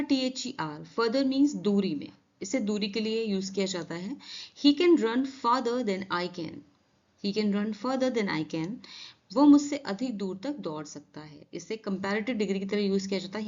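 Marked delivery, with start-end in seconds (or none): 4.6-6.6 very slow, evenly spaced words; slow careful classroom reading; slow model sentence. Shown as a demonstration. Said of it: "contrast farther/further examples". 7.2-8.8 very slow with a rise on further; slow careful classroom reading; slow model sentence. Shown as a demonstration. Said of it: "contrast farther/further examples".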